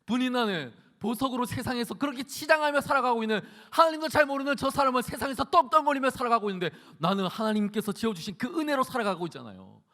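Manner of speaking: imitating an anguished plea to God, high-pitched; a preacher's acted lament, crying out why; wailing prayer. Hannah questioning God about her life, acted wailing prayer. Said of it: "하나님께 통곡하며 기도했다는".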